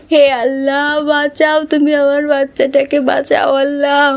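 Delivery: sobbing, shouted prayer; desperate mother crying out; crying plea. Acted. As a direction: cry out to God for your baby. Mother begs God for burning child.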